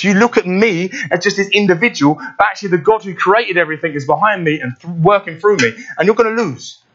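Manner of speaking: a hint of a defiant boy; David defiant. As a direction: lift it up and dare the giant. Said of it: "David is looking back at these events and saying".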